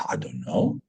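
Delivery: breathless whisper, pitched low; whispered reply. Retold or imitated. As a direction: whisper it, bewildered. Stunned reply to shaman's question.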